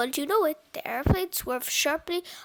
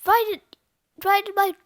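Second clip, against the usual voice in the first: higher, louder worried reply; urgent, raised-voice storybook character; frantic yell; 5 semitones higher, 7 dB louder than usual. A narrator's reading. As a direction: shout it in rising desperation. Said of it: "screamed Cheeseball".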